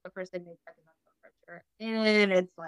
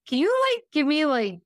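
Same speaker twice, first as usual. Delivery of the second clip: overwhelmed plea; 5 semitones higher, 4 dB louder than usual. Retold or imitated. Overwhelmed patient asks for moment.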